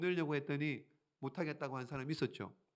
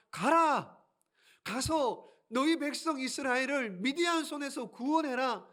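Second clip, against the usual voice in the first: loud, higher command; much higher, louder order; divine command; 8 semitones higher, 3 dB louder than usual. Acted. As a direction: send him out with one word. God's command.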